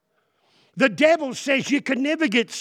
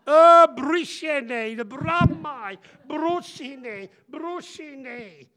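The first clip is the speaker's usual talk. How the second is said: laughing; 6 semitones higher, 4 dB louder, much slower than usual. Real, not acted. Playful mispronouncing a name.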